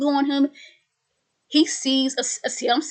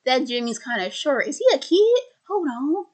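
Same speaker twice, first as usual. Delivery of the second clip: suspicious surprise; 2 semitones higher than usual. Retold or imitated. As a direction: catch something odd and jump on it. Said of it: "He's like".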